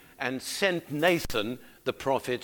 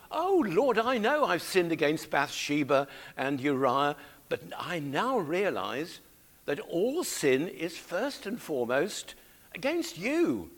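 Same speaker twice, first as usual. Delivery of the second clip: praying as David. Acted. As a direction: own up to God, leaning on each admission. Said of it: "This is him".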